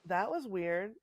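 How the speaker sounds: cutting in and out; glitchy audio. Real, not acted. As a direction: dropouts like a bad connection. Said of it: "glitching in and out".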